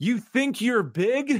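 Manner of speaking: very high-pitched acted-out shout, challenging tone. Recapping a wrestling exchange on a podcast, retelling Tozawa's yell. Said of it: "Tozawa yelled".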